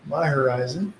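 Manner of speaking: usual speaking voice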